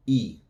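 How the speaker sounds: Spanish "y" said as "E", like English "ee"; a lone long "E" vowel, as in "see". Shown as a demonstration. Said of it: "Y is going to sound like a long E in English".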